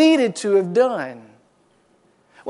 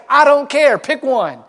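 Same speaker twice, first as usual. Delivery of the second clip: exasperated outburst; 4 semitones higher, 4 dB louder than usual. Retold or imitated. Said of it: "you want to say".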